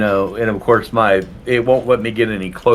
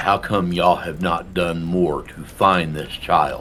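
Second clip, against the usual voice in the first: lowered, deeper, gruff, hard-edged voice; 3 semitones lower, 3 dB quieter than usual. Playing a character who steps closer to him and speaks, in a deeper gruff voice. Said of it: "my voice is a little deeper and more gruff".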